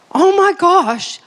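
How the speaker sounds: re-enacted dismay; panicked. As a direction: play up the alarm, slowly. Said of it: "I just went into panic mode".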